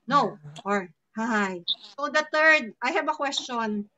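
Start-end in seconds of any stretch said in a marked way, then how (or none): 0.0-1.6 slow NO and HI, each falling. Shown as a demonstration. Teacher reviewing fourth tone, falling NO and sighing HI. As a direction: let NO and HI each drop away. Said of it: "the fourth one is".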